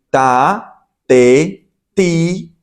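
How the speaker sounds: "ta", "te", "ti" as separate held syllables; T with vowels. Shown as a demonstration. Teacher shows where sound comes from, "ta, te, ti" spaced out. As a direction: voice a clear vowel after each t in "ta, te, ti". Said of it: "cuando yo pongo una vocal después".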